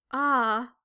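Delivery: a loud, drawn-out sigh of pain; moaning. A narrator's reading. Weaving maiden grieving at her loom, moaning aloud. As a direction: let out a pained moan. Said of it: "she moaned".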